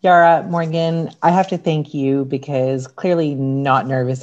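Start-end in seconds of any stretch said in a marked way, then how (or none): none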